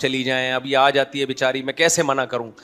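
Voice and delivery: reluctant mother. Retold or imitated. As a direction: voice a mother too kind to refuse. Mother reluctant to send guest away. (ہچکچاتی ماں کی دھیمی آواز)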